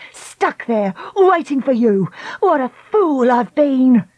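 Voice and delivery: slow, rueful voice; bitter regret. Acted. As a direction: rue it aloud. Lucy regrets.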